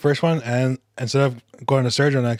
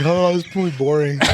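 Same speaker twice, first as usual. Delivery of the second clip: higher-pitched, laughed-out mock complaint; laughing mock quote; 4 semitones higher than usual. Friend jokingly voicing the bored movie watcher, laughing. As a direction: put on a complaint while cracking up.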